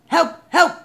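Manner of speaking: high, loud cry for help; urgent radio call. A narrator's reading. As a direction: call out for backup.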